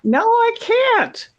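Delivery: high-pitched, drawn-out protest; indignant, stretched-out no; exasperated refusal. Real, not acted. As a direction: refuse slowly, voice shooting way up. Protesting request to do accent.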